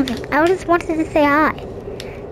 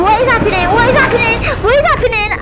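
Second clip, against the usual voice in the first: high, loud, alarmed repeated question; panicking as the game goes wild; real fright; 5 semitones higher, 4 dB louder, faster than usual. Real, not acted. Child frightened inside the giant spaceship, high and alarmed. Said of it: "I'm scared, I'm scared".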